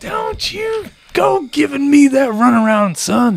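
hammed-up officer rebuke; mock general scolding. Voicing the general.

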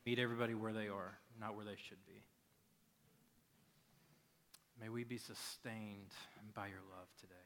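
gentle prayer with long pauses; unhurried, subdued pastoral prayer. Real, not acted. Leads the congregation in prayer.

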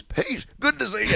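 high, slow, put-on voice for the greeting man; drawn-out, lofty mock welcome; mock posh greeting. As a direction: ham up a stiff showbiz hello. Retold greeting from a celebrity.

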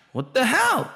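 a sudden high What the hell; high, incredulous What the hell; exasperated outburst. Real, not acted. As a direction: throw up your hands in disbelief. Exasperated at Crawford's stance.

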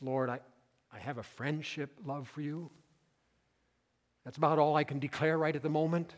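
halting, understated, humbled admission; hesitant. Acted. Preacher voices a humbled Peter answering his Lord, hesitant. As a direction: admit it haltingly, without any bravado. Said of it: "He's hesitant".

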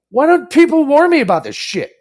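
retold exasperation. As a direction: act out an exasperated boss. Retold exasperated boss complaint.

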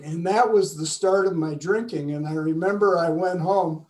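slightly husky, throat needs clearing; speaking past a catch in the throat; frog in throat. Real, not acted. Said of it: "I got a little frog in my throat here".

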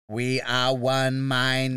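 slow, even machine voice; slow robot voice. Acted. Robot answering the host, a hint of slow robot. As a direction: speak as one hive mind.

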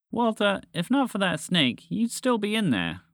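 high, reproving tone; scolding. A narrator's reading. Frog to her ungrateful friend, scolding. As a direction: tell your friend off.

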